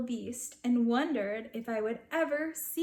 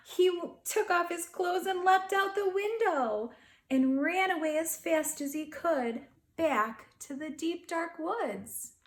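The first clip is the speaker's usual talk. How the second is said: higher, faster rush of the escape; storyteller's dramatic burst; excited telling; 6 semitones higher, 3 dB louder than usual. A narrator's reading. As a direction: race through it breathlessly.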